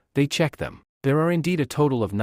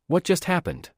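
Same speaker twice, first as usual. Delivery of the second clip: a bystander blurts it out, pitched up but not yelled; startled shout; 7 semitones higher than usual. A narrator's reading. Bystander reacting to the sector's disqualification, high startled cry. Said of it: "Someone shouts".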